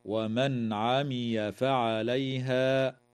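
slow chanted verse; Quran recitation. Shown as a demonstration.

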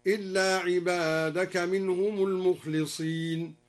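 المخلصين read as al-mukhlisina, lam with i; المخلصين with kasra. Shown as a demonstration. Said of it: "بكسر اللام هكذا".

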